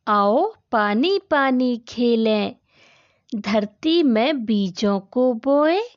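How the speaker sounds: put-on slow, measured children's verse; unhurried classroom poem reading; poem recitation. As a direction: recite it slowly for young pupils, drawing out the line endings.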